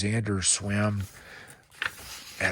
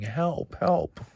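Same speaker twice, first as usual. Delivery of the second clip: crowd shouting; 8 semitones higher than usual. Acted.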